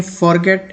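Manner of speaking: forget as "FOR-get", full first vowel; spelling pronunciation. Shown as a demonstration. Teacher shows how people read the spelling, mistaken pronunciation. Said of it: "इसे भी लोग पढ़ते हैं".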